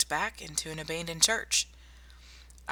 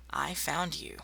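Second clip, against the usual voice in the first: whispering; 4 dB quieter, slower than usual. Acted. Recounting finding the patient.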